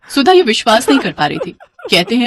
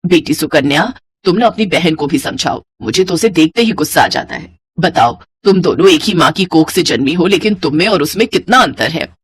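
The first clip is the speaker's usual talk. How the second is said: lightly voiced mother-in-law; 4 semitones lower than usual. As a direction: lower older-woman voice, mildly disapproving.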